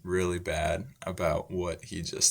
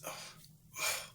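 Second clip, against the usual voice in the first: soft, short groan of a wince; wincing groan; 16 dB quieter than usual. Acted. Teacher acting out guy hit by fries, wincing softly. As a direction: imitate someone wincing when hit. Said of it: "like, winces, winces".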